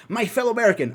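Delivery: hint of a formal white dad; white dude voice. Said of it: "I sounded like a white dude".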